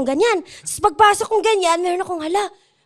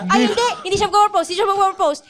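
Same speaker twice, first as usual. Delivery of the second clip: excited; 4 semitones higher, 4 dB louder, faster than usual. Real, not acted. Excited retelling, laughing.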